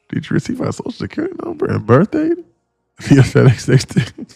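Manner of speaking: high, soft mocking voice reading a chat scam; mock scammer message. Streamer reads a scam chat message aloud, mock high voice. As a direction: read it like a silly scam message. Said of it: "I love reading those".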